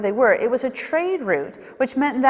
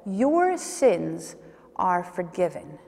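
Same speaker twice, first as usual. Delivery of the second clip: tender Jesus; 5 semitones lower, 5 dB quieter, much slower than usual. Acted. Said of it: "looks us straight in our face and says".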